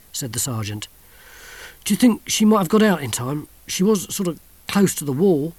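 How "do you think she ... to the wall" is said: a touch of a moan; worried mild moan. A narrator's reading. Soldier to sergeant, mildly moaning. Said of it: "moaned the soldier".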